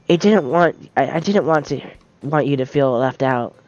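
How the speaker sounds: put-on soft, hesitant shy girl; timid bookish girl, speaking softly; shy Yuri voice.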